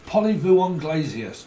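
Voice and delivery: slow, loud, high mock-French; French accent. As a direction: drag out a hammed-up French accent. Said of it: "It's a French accent".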